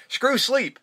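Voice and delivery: playful imitation of a drunk mom's outburst; mock outburst. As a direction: fling the words out like slamming a bottle. Mom slams vodka bottle, retold scene.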